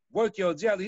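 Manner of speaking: puzzled man echoing the odd phrase back, incredulous; incredulous repeat. Retold or imitated. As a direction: echo the phrase like you can't believe it. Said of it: "what did you say?".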